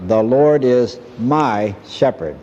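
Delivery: put-on each word laid down slowly, as if teaching a small child; slow deliberate recitation. Devout Swiss mother teaching her little boy the psalm, slow and deliberate. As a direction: recite "The Lord is my shepherd" slowly and carefully, like a lesson learned by heart. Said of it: "taught their little boy ... this way".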